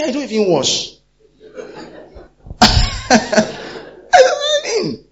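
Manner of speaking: high, loud shouted neighbour squabble; acted shrill quarrel. Preacher acting women fighting over the clothing line, shouting. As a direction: yell back at the gossiping neighbour.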